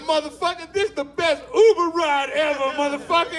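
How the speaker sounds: loud, high, pumped; hyped reply. Retold or imitated. The driver praising the ride back to the passenger, loud and high. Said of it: "And I'm like".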